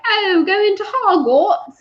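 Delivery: high, slow put-on conductor voice; hammed-up conductor impression; mock train conductor. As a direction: draw it out high as a caricatured conductor. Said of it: "he was the train conductor".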